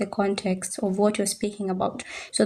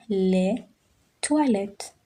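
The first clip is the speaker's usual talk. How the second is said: slow vocabulary model; slower than usual. Shown as a demonstration. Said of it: "teacher introduces the word".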